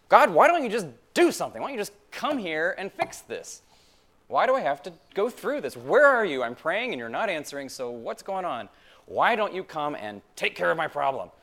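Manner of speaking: loud, fast, pleading cry to God; urgent complaint to heaven; pleading prayer. Retold or imitated. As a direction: beg God to act, voice straining upward. Acted desperate prayer to God.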